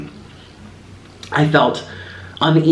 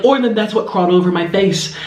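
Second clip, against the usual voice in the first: much higher, shocked reveal to husband; alarmed discovery; 8 semitones higher than usual. Retold or imitated. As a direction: point it out in horrified disbelief. Discovering giant cockroach on bedpost.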